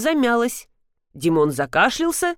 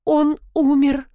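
mild tearful sob, higher and slow; sobbing; 7 semitones higher, 3 dB louder, slower than usual. A narrator's reading. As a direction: say it through mild sobs, slowly. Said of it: "донеслись всхлипывания".

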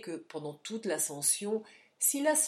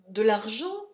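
louder startled question; troubled echo; 2 semitones higher, 8 dB louder than usual. Acted. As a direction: repeat it, alarmed. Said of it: "répéta Silas très troublé".

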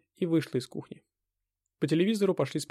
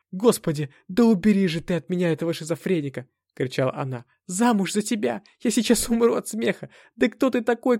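loud, much higher hysterical screaming; 6 semitones higher, 5 dB louder than usual. A narrator's reading. Anna screams at the hero, loud and high. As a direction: scream it in mocking fury.

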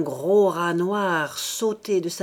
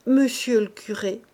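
lamenting; 5 semitones higher, 4 dB louder than usual. A narrator's reading. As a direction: wail it to the priest. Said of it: "en se lamentant plus haut".

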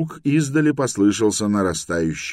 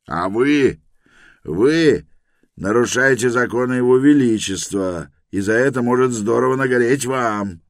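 louder, higher angry bark, stress on может; barking guard; 6 semitones higher, 7 dB louder than usual. A narrator's reading. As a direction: snap it back furiously. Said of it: "рявкнул охранник".

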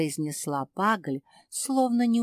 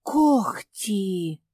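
breathed out in realization; exhaled; 4 dB louder than usual. A narrator's reading. Mafi realizing the truth, breathed out. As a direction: let the word out on a breath. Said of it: "выдохнула Мафи".

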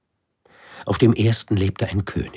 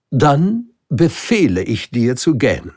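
high, loud royal order; commanding king; 8 semitones higher, 6 dB louder than usual. Acted. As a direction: decree it grandly. (befehlender König, hoch und laut)

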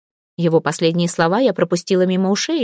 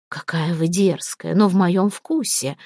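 leering boss; slower than usual. Acted. Predatory boss flirting.

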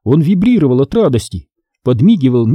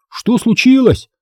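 задыхаясь; 10 semitones higher than usual. Acted. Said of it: "задыхаясь".

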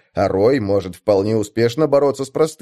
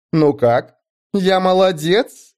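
slow, higher purring question; 8 semitones higher, much slower than usual. Acted. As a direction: purr it out, fishing for praise. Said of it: "чуть ли не промурлыкала девушка".

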